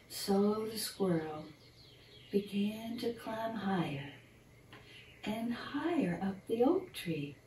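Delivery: put-on gentle storybook narration for children; bedtime story reading. Reading a squirrel bedtime story to young listeners, storyteller voice. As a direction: read it like a picture book at bedtime.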